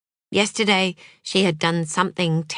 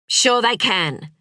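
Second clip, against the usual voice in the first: feverish; 5 semitones higher, slower than usual. Acted. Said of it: "said Sam feverishly".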